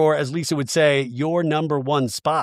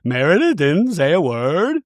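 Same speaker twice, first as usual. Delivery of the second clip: mock tearful voice. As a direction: imitate someone starting to tear up. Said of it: "but her voice, she's like".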